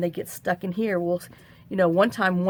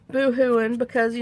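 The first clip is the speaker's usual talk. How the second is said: laughing; 5 semitones higher, 4 dB louder than usual. Real, not acted. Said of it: "laughing about crying".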